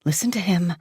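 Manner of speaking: tight-throated whisper; whispered, throat tight with fear. A narrator's reading. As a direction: barely get his name out. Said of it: "I can hardly whisper".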